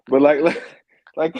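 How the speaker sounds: trying to talk through laughter; cracking up mid-sentence; laughing. Real, not acted. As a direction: break into laughs between words. Laughing after being roasted.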